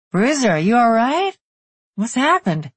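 worried half-brother voice. A narrator's reading. Cody voiced, worried on phone.

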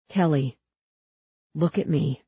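calm, even request. A narrator's reading. Huck to dazed girl, calm. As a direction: draw her attention gently. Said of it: "Huck's voice was calm".

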